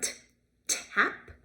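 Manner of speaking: "tap" with a front tapped t; tappy T. Shown as a demonstration. Teacher modelling the tappy sound. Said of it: "That's a tappy sound".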